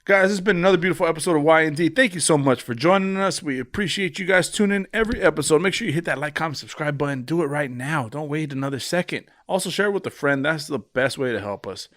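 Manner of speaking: brisk, practised outro patter; podcast sign-off. Real, not acted. Host thanking listeners and asking them to subscribe, brisk sign-off. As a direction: rattle off the closing plug with energy.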